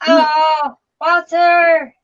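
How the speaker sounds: high, loud, delighted call; excited dog greeting. Real, not acted. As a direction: greet the puppy with joy.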